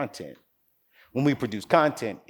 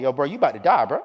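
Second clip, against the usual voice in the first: put-on louder, laughing teenage jab at the frog; laughing taunt; 4 semitones higher, 6 dB louder, faster than usual. Teen boy laughing at the frog in the pot, laughing taunt. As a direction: tease the doomed frog through a laugh. Boys mocking frog at workstation.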